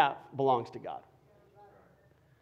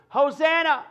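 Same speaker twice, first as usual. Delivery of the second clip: high, loud cry of praise; joyful shout; 11 semitones higher, 7 dB louder than usual. Retold or imitated. Preacher voicing the Palm Sunday crowd, loud and high.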